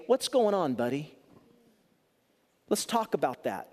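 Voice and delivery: put-on a parent gently asking a child what is wrong; gentle parent. Shown as a demonstration. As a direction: coax the kid to talk kindly. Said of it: "it might be better to say".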